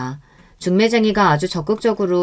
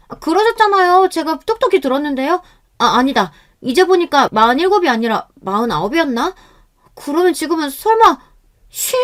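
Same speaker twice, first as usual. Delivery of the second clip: put-on high, chirpy young woman's voice; pitched-up, playful musing; feigned innocence; 8 semitones higher than usual. A narrator's reading. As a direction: bait him with innocent guesses. Girl baits groom with wrong ages.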